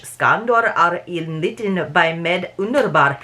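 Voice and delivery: slow, halting try at reading Swedish aloud; attempted Swedish accent. Shown as a demonstration. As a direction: sound out the Swedish words carefully, slowly. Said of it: "I can't do a Swedish accent either".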